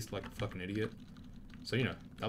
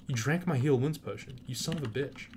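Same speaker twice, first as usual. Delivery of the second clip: indignant yell; 4 semitones higher than usual. Real, not acted. Enemy drank his healing potion.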